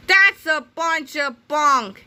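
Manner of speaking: slow, indignant grown-up scoff; gruff scoff. A narrator's reading. Melvin-as-Krupp dismissing the explanation, slow scoff. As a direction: scoff like a grumpy principal. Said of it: "yelled Melvin".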